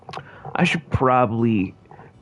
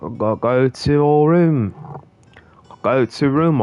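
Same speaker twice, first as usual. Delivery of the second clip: mock British accent; 3 semitones higher than usual. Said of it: "if you guys hate this accent".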